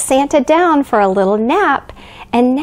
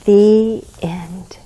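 whispering; 4 semitones lower than usual. Acted. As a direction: whisper it to sleepy kids. Closing the bedtime story.

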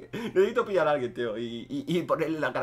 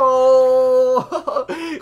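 real loud laugh breaking into a wail; loud frustrated laugh-cry; loud pained laugh; 9 semitones higher, 11 dB louder than usual. Real, not acted. Reacts to losing the kill.

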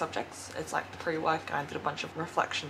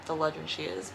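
ordinary talk

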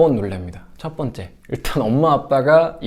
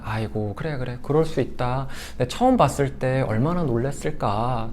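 comforting parent. Shown as a demonstration. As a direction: soothe a startled kid, easing down to a hush. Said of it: "라면서 설명하시는 걸 추천해요".

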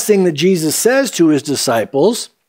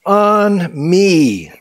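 slow, drawn-out plea; mildly acted cry, word by word; imitated plea; 3 semitones higher, much slower than usual. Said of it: "she cries out".

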